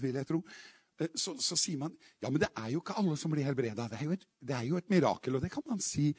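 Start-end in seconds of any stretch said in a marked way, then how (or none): 2.2-3.9 low, soft, quick imitation of a doubter; objection voiced quietly. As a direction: murmur a mild, hurried objection. Voices common sceptical objection.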